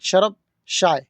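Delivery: slow, careful Arabic phrase; slow teaching voice; slow Arabic demo. Shown as a demonstration. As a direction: spell out each word slowly for learners. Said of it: "चाय पियो".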